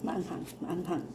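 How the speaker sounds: repeating it through the burn; mouth burning from spicy food. Real, not acted. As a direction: mouth on fire, words tight.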